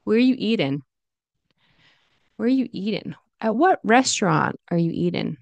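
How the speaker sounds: "eating" as "eatin'" in a question; IN ending. Shown as a demonstration. Teacher giving casual example questions, IN ending. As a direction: finish each "eating" on N. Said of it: "you could say eating".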